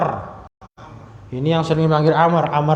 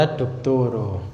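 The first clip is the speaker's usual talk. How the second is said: slow demo; 3 semitones lower, 5 dB quieter, much slower than usual. Shown as a demonstration.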